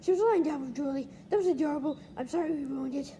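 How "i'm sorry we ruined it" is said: hushed whispered apology. Real, not acted. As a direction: whisper so she stays asleep. Apologizing for waking dog.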